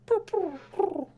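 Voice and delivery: very high, short trilled purrs; bird creature cooing. Acted. Bird creature greets the injured player, high purring trills. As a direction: trill like a curious little bird. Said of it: "bird creature looks up at you and goes like".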